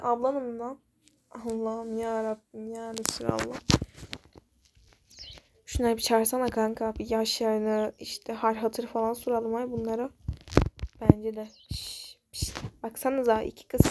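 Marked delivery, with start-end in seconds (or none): 1.3-3.6 exasperated groan. Acted. Exasperated at the silly talk. 11.7-12.5 a breathless "Şş, şş" to get attention; bully hissing at the new girls to come over; hissed psst. Acted.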